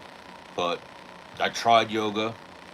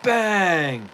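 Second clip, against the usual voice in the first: imitating the instructor; 8 semitones higher than usual. Mimicking the yoga teacher coaching the class. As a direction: pump the class up then shout bang. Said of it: "he'll be like".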